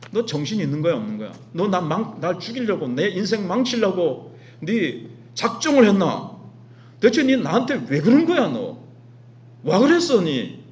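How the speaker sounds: acted indignant grilling, rising in pitch and volume; confronting, demanding answers. Abimelech confronts Abraham over the deception, acted indignant grilling. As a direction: take him to task in dialect, building as you go. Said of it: "이렇게 이제 지금 따지는 거예요".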